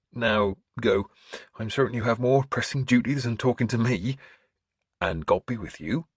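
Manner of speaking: lightly voiced churchman, brisk dismissal; a hint of priestly benediction; kindly bishop. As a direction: send him off kindly in a lifted voice.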